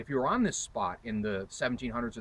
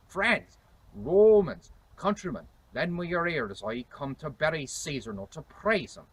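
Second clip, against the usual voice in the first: declaimed higher in 1600s English accent; Shakespearean accent; 4 semitones higher, 6 dB louder than usual. Shown as a demonstration. Historian demonstrating Shakespeare's famous speech, 1600s English accent. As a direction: proclaim it in reconstructed Elizabethan pronunciation. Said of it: "He said".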